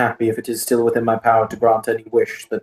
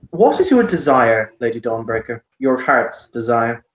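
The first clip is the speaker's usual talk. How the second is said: matter of fact; 2 semitones lower than usual. Acted. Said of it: "he's really matter of fact".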